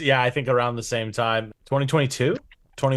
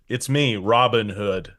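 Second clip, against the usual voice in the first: Kevin Costner Robin Hood; 4 semitones lower, slower than usual. Retold or imitated. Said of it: "That's my Kevin Costner Robin Hood".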